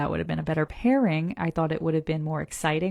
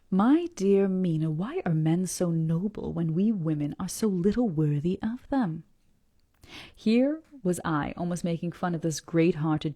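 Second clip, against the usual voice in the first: letter read aloud with feeling; story reading. Acted.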